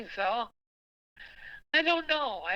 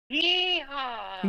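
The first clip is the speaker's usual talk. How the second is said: cowboy holler, drawn out; yeehaw; 6 semitones higher than usual. Pretend. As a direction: give a Texas cowboy yeehaw. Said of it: "Can you give me a yeehaw right now?".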